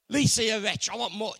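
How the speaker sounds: loud scolding on wretch, fading out; a harsh judge berating her; mock condemnation. Preacher mocks a condemning God scolding Lisa, loud. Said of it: "It's not condemnation saying".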